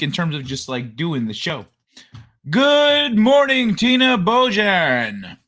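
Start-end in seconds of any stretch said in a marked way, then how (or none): 2.5-5.4 slow, stretched sing-song greeting; drawn-out greeting. Acted. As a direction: draw the hello out, a little raised. And of course.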